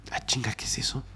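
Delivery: hushed scared whisper; frightened whisper in a dark room; whispered fright. Retold or imitated. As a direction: breathe it out in fear. Scared reaction retold in the dark.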